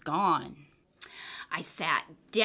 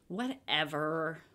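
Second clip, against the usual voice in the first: soft, slow, barely voiced whatever; whispered; 5 semitones lower, 7 dB quieter, slower than usual. A narrator's reading. Wolf pup mutters back to mom, whispering. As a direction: breathe it out under the breath. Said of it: "I whispered".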